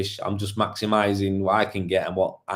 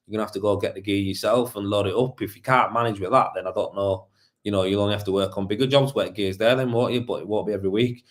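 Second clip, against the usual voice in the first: calm explaining. Retold or imitated. Boss explaining to his worker, calm and patient. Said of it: "I should have explained to him".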